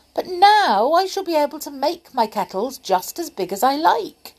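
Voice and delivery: a hint of a fussy old pedlar, eager about his spell; story voice of a pleased old pedlar, quick; Saucepan the pedlar.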